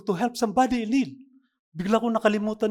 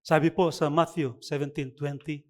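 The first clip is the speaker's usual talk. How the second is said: preaching; slower than usual. Acted. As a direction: preach the point to the congregation. Pastor preaches to congregation.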